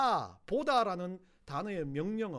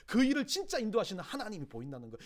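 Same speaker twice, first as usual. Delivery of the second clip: usual speaking voice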